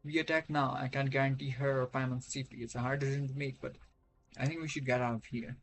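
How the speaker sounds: ordinary delivery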